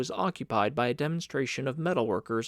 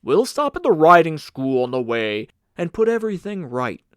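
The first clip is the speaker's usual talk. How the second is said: a hint of a hearty older man, offering help; lightly voiced kind gentleman; 3 semitones higher, 10 dB louder than usual. Kind Mister Polander offers Carl a ride, lightly voiced. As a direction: kindly reassure the boy, a touch louder.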